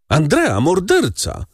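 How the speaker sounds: narrator's restrained voicing of a startled woman; woman's cry. A narrator's reading. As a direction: cry out the accusation, pitched well up. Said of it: "krzyknęła jedna z kobiet".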